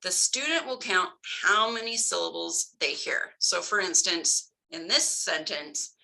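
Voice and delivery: ordinary talk, nothing marked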